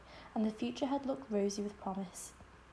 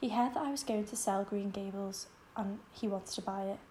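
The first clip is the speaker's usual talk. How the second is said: voice breaking. Acted. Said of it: "her voice broke as she said".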